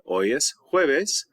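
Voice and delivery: each word laid out slowly for students; slow model answer. Shown as a demonstration. Teacher modelling the answer slowly for the class. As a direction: spell out the answer slowly so they can follow. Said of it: "You would say".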